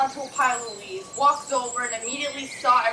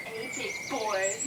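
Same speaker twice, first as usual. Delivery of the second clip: Little Rascals voice; 8 dB quieter, much slower than usual. Retold or imitated. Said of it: "little rascals it".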